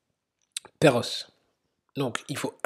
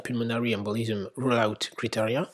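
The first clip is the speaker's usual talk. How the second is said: French-accented English. Real, not acted. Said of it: "mon accent anglais me fascine".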